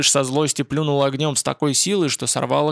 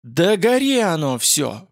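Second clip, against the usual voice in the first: growled in despair; 3 semitones higher, slower than usual. Acted. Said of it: "прорычал он".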